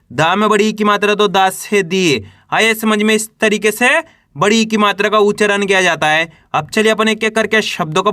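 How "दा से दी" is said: long falling ee in दी; drawn-out syllable. Shown as a demonstration. Teacher adding the long vowel to दा, दी drawn out. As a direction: stretch दी at the end. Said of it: "बड़ी का उच्चारण जोड़ना है".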